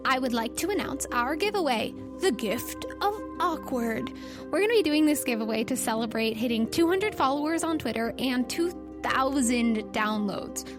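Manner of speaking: ordinary delivery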